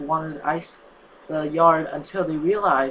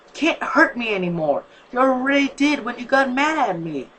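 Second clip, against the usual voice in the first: angrily; 8 semitones higher, 3 dB louder than usual. A narrator's reading. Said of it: "said angrily".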